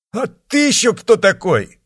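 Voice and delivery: high, loud, startled cry; startled exclamation. A narrator's reading. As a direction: blurt it out in shock. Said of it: "воскликнул Пинхет". (испуганный возглас)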